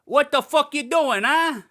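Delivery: loud, high furious yell at the intruder; hammed-up angry shout, not how he really sounds; angry car owner. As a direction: bellow like an outraged car owner. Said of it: "he doesn't sound like that".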